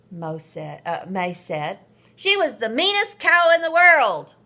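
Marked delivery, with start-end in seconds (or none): 2.1-4.4 loud, high, sneering sister voice; mean sister. A narrator's reading. May telling Marvin off about Rosie, loud and sneering. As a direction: spit it out with contempt. Sister insulting the dead cow.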